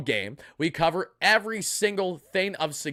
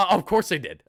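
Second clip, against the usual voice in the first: high-pitched yelp; 3 semitones higher than usual. Shown as a demonstration. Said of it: "You gotta go the high pitches".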